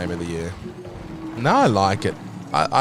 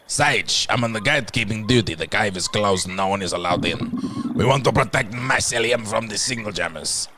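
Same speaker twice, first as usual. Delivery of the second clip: NPC guard voice. Acted. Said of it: "What voice did I give these guys".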